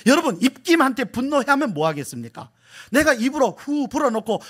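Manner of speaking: high, urgent preacher's voice; impassioned preaching. Real, not acted. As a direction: press the question on the congregation. Preaches with force.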